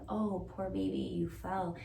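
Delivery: gentle mock soothing; tender comfort. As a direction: comfort a hurt child. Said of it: "It's a".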